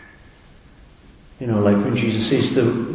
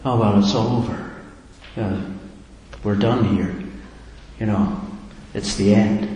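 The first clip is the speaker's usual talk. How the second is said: mildly defeated, winding down with a sigh; a touch of weary resignation; resigned sigh. Acted. Preacher imagining Jesus giving up on the cross, mildly resigned. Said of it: "with a sigh".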